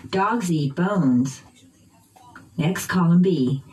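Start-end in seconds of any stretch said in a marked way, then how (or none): 0.1-1.4 slow "Dogs eat bones" with "Dogs" and "bones" stressed; noun stress. Shown as a demonstration. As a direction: punch "Dogs" and "bones" in "Dogs eat bones", falling at the end. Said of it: "keeping the same intonation pattern".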